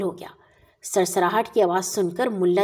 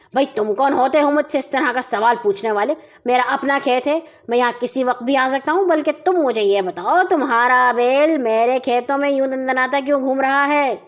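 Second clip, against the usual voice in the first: indignant anger; faster than usual. Acted. Mulla indignantly confronting the neighbor, fast and heated. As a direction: snap back at him, quick and heated. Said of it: "غصے سے آگ بگولا ہوئے".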